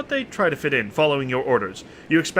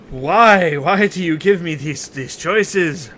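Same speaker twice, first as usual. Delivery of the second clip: exasperated complaint; 5 dB louder, much slower than usual. Real, not acted. Complaining about the game's choices.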